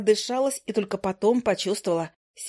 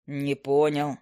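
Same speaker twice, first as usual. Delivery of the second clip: put-on lower, slower young man; a calm offer in a low male voice; low hunter; 6 semitones lower, much slower than usual.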